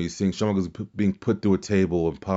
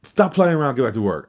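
lightly voiced scolding dad, starting high; a hint of a telling-off from dad; 4 semitones higher, 3 dB louder than usual. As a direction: start high and firm like a dad, then settle. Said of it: "this dude in his dad voice".

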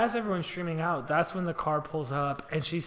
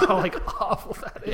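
loud, laughing through the words; helpless laughter while commiserating; real laughing dismay; 4 semitones higher, 4 dB louder than usual. Real, not acted. Co-host reacting to the hurt mom, laughing loudly.

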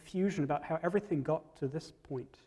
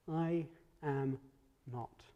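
"I am not" in separate words, dropping low and soft on "not"; emphatic denial; 3 semitones lower, 5 dB quieter, much slower than usual. Acted. Peter denies it at the fireside, quietly emphatic. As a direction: pause before a low, hushed "not" in "I am not". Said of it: "emphatically he says again".

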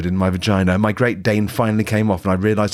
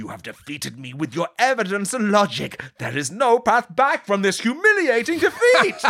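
hammed-up defeat; 13 semitones higher than usual. Sage concedes dramatically.

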